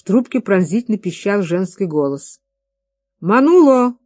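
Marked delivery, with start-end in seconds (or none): 3.2-4.0 loud, high call across the room; calling a friend who is busy drinking; shout. Acted. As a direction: yell his name to turn him around. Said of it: "крикнул Гомес".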